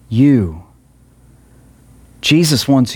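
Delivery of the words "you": "You" alone, low and firm; stress on YOU. Shown as a demonstration. Preacher points the message at each listener, stressing "You". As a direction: land a lone, weighty low "You". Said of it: "Notice the emphasis I put here".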